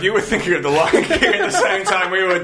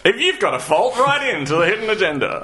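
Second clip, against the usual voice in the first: lightly hammed-up slogan with a raised opening; mock announcer; 3 semitones higher than usual. Co-host repeats the plug for listeners, mock announcer. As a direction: pitch it as a playful show plug.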